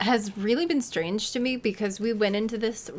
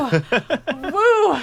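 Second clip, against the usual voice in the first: high, loud laughing whoop; laughing woo; 6 semitones higher, 9 dB louder than usual. Real, not acted. Streamer reliving the meeting, a high loud laughing whoop.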